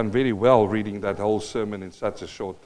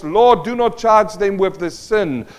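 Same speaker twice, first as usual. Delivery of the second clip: high, loud and slow plea; 8 semitones higher, 10 dB louder, slower than usual. Retold or imitated. Stephen crying out for his killers, loud and slow. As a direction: cry out forgiveness over the crowd. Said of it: "out of the loud voice".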